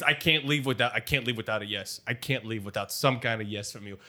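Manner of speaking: low, soft desperate plea; subdued, insistent begging; pleading. Acted. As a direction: beg quietly for a yes. Begging for a yes before leaving.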